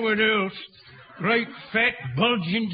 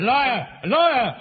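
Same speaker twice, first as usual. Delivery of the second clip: accusing cry. Acted. Old man heckles captain's claim.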